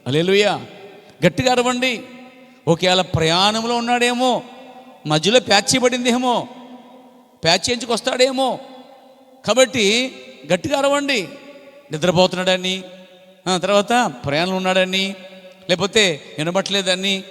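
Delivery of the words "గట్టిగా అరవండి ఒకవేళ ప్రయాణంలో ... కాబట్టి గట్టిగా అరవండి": higher, teasing jeer at the prophets; mock them, pitched up, drawing it out; mocking taunt. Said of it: "హేళన చేస్తున్నాడు". (బయలు ప్రవక్తలను ఎగతాళి చేస్తూ, ఎక్కువ స్వరంలో)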